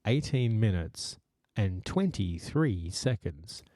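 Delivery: slow, even recorded time announcement; talking clock phone voice. Retold or imitated. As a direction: read it like the old phone speaking clock. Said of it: "This is for the millennials and older".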